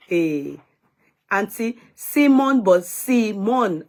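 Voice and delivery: drawn-out, mocking repeat of a correction; mock exasperation. Host throws a viewer's Simon correction back, mocking. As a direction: stretch out "Simon" in teasing reproach.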